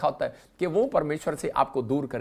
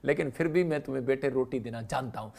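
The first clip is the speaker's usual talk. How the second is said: tender voice of God; 2 semitones lower than usual. Acted. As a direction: speak to a child gently, as God. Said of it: "परमेश्वर कह रहा".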